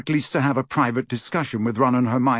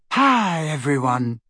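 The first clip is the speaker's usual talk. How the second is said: happy Luna; 3 semitones higher, slower than usual. A narrator's reading. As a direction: greet them all happily. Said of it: "said Luna happily".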